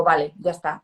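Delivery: a resolute, clear "Vale, ya está"; firm settling. Retold or imitated. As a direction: close the matter firmly with "Vale, ya está". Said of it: "Y digo".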